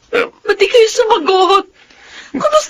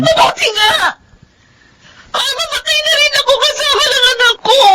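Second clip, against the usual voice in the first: bitter outburst; 5 semitones higher than usual. Acted. Daughter lashes out at mother.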